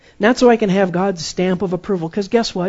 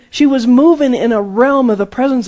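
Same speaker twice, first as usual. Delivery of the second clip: preaching shout; 5 semitones higher, 6 dB louder than usual. Acted. Preaching climax.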